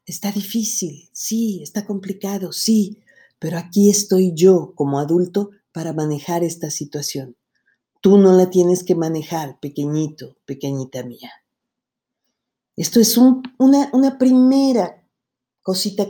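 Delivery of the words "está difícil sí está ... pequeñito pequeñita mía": put-on soothing a child. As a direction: gently comfort a frightened little one.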